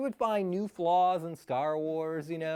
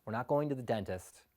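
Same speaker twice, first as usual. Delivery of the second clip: lower, softer conspiratorial reveal; mom's surprise; 8 semitones lower, 5 dB quieter than usual. Retold or imitated. Mom turning to boys in back seat, hushed low reveal. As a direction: let them in on a secret treat. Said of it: "and says".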